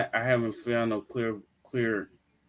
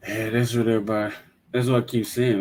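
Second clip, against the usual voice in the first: defensive. Real, not acted. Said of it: "Your voice sound like you fighting me".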